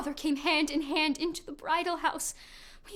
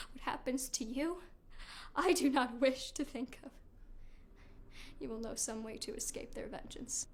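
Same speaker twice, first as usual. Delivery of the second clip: low, soft, ominous warning; grave and hushed; 6 semitones lower, 12 dB quieter than usual. Acted. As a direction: drop to a dark murmur. Grim turn to Medea.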